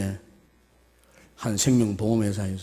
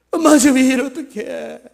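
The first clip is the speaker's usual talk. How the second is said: higher, urgent plea to her mother; desperate daughter; 14 semitones higher, 6 dB louder than usual. Acted. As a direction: beg mom what to do. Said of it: "막 이러면서 엄마한테 막".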